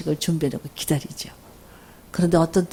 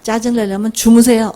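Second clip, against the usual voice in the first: tired son's retort; 3 semitones higher, 5 dB louder than usual. Retold or imitated. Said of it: "우리 아들도 피곤해서 들어다가".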